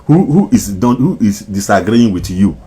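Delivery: loud, high, challenging; angry loud. Real, not acted. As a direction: demand it angrily. Heated rant.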